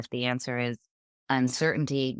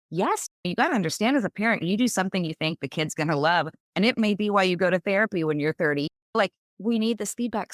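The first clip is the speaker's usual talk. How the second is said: higher and louder, pressing the point home; half-laughing earnest lecture to her grown son; emphatic parent advice; 5 semitones higher, 4 dB louder than usual. Retold or imitated. Mother telling her son, emphatic and louder.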